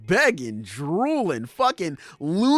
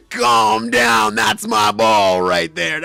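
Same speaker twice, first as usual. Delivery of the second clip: loud mock warning; hammed-up territorial shout; possessive retort; 6 dB louder than usual. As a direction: tell him to back off, loudly. Acted possessive retort to Roger.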